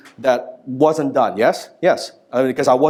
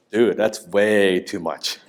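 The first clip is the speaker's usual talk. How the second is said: slow, lower mock disapproval; disapproving friend; 5 semitones lower, 3 dB quieter, slower than usual. Friend reacting to his naked yoga, mock disapproving. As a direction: draw it out low, like an unimpressed buddy.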